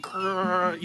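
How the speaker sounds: a playful growl from fans; deep throaty growls. Retold or imitated. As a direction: growl it like a worked-up fan. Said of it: "dudes just going".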